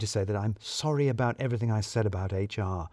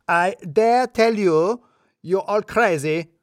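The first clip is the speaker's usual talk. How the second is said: much higher, louder, slow furious shout; full-volume yell; 8 semitones higher, 6 dB louder, slower than usual. A narrator's reading. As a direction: roar it at the whole office. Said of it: "heard him at full volume".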